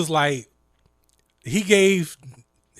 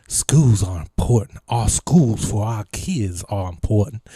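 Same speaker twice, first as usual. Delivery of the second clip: imitating the governor; 4 semitones lower than usual. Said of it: "that's how he talk".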